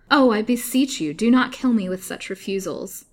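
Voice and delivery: high, loud desperate cry; wild pleading. A narrator's reading. Captive begging her captor not to refuse, wild. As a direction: beseech wildly, starting high and loud. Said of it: "cried Lily wildly".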